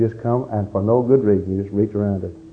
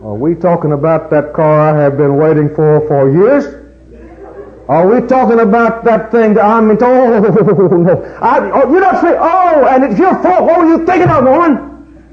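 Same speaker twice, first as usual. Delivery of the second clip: high, loud hammed-up outburst at his wife; a comic tirade over the wrecked car; mock husband rant; 9 semitones higher, 5 dB louder than usual. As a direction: play the outraged husband, pitched way up.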